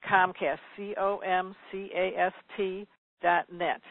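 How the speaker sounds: slow, careful dictation; deliberate, separated letters; slowly spelled out. Real, not acted. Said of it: "I'm gonna say it slowly".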